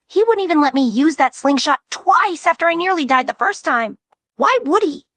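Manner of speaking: rising in pitch as shock builds; strangled disbelief. Acted. Ribbit horrified at the listener's claim, strangled disbelief. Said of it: "His voice comes out strangled".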